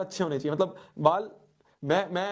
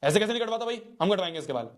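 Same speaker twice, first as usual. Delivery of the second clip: higher, lightly voiced insistent grandfather; a hint of grandpa putting his foot down; mock stern grandfather; 5 semitones higher, faster than usual. Grandfather insisting the boy gets a haircut, mildly stern. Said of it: "दादाजी ने कहा".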